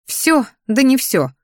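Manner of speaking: high questioning echo, then dismissive; smirking. A narrator's reading. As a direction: doubt it with a smirk. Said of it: "усмехнулась я".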